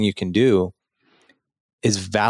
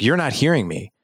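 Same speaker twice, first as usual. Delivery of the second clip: wife frustrated that her husband won't just listen; 2 semitones higher than usual. Retold or imitated. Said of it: "And she's like".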